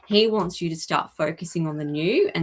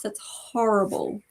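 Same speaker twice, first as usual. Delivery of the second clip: whispered sympathy. Real, not acted. Medium reacting to a grieving woman's photo, whispering. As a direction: breathe it out in a sorry whisper. Medium moved by a sad picture.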